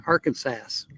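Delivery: "Arkansas" ending in "sass"; unsure pronunciation. Real, not acted. Vlogger guessing at a place name, "Arkansas" said as Arkan-sass. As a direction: try "Arkansas" with a final sass sound. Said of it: "I don't know how you say it".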